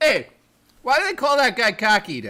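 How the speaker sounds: put-on Boston accent. Acting out how the other speaker talked while high: boston accent. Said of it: "talking in a Boston accent".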